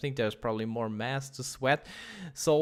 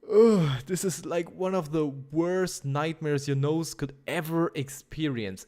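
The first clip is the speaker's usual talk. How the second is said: slow, revolted ugh pushed out louder; real revulsion, slow and louder; disgusted; 3 dB louder than usual. Real, not acted. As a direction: let the disgust twist the voice. Disgust at combined smells.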